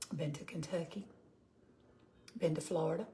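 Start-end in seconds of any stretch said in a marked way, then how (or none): 0.1-1.1 quiet whispered aside. Real, not acted. Telling her viewers in a whispered aside. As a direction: whisper it to yourself, remembering. Musing to herself.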